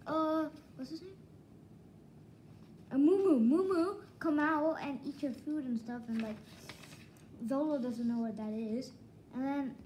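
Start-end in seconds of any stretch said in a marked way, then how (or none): 2.9-6.0 calling out. Retold or imitated. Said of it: "he's like".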